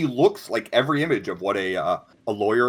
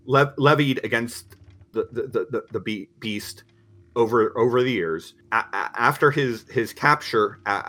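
alarmed, stammering uh-oh; nervous stuttering lawyer; 4 dB louder than usual. Acted. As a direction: caught off guard, stumbling. Lawyer lists the charges.

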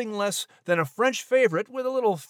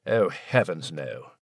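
posh gent; slower than usual. Acted. Posh mouse voice very low.

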